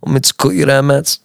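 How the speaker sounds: lightly voiced friendly barber; a hint of a Turkish barber. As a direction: play the chatty barber. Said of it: "sound like I'm a Turkish barber".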